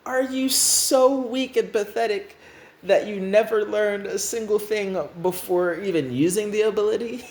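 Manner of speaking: high, exasperated rant; outraged scolding. Acted. New Restart berates the other for using the ability, outraged. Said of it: "manage to articulate it so nicely ... Just like".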